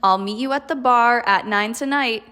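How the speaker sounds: falling-rising tune over "meet you", "bar", "nine tonight"; varied pitch on each of "meet you", "bar" and "nine tonight"; varied intonation. Shown as a demonstration. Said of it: "the sentence will sound more varied".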